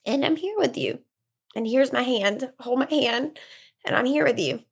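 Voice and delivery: tearful, halting comfort; tearful reassurance. Real, not acted. Offering a hand to a struggling mom, tearful. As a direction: offer comfort while choked up. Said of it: "that's making me cry".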